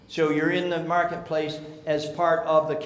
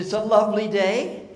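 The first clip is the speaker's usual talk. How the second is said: louder, higher and beaming; chirpy clerk insisting on sunshine; sunny clerk; 5 semitones higher, 5 dB louder than usual. Retold or imitated. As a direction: sell the lovely day to a wet customer. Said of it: "young woman have a nice attitude?".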